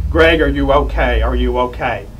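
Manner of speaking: loud urgent check, easing on the repeat; retold worried yell. Father calling to his son amid gunfire, retold yell. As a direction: mildly re-enact yelling into a phone. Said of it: "yelling into the phone".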